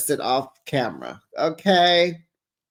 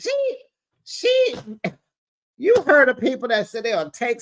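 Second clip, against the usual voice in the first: crying laughter; 5 semitones higher than usual. Real, not acted.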